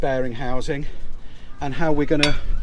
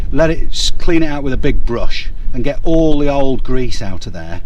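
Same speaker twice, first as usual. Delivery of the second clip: raised voice; 6 dB louder than usual. Real, not acted. Talking over workshop noise.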